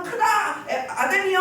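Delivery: high-pitched mock chanting call; imitated crowd cry. Preacher mimics the crowd hailing its goddess, high excited cry. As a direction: cry it out high, like one of the mob.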